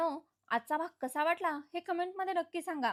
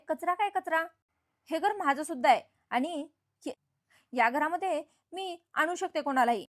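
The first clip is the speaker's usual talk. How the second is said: louder, firm pushback in a quarrel; angry retort; 4 dB louder than usual. Retold or imitated. Nandini defending Jui against the aunt, louder and angry. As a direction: stand your ground, voice raised.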